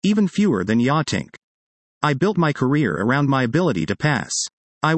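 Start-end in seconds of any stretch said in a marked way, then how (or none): 0.0-1.3 lightly put-on New York accent; heavy New York accent. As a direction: retell it with a touch of thick New York speech. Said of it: "with my heaviest New York accent".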